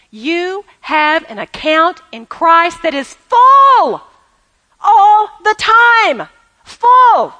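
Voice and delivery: slow build to a loud, ringing FULL; building emphasis. Real, not acted. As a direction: drive it home, rising to a shout. Preacher building to a shout.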